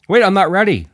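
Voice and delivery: high, loud panicked yell. A narrator's reading. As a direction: call out, not ready yet. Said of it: "Mills yelled out".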